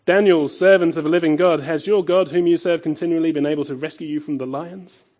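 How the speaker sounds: loud, high call across the den; king calling into the lions' den, calling out loud. Retold or imitated. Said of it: "he calls out".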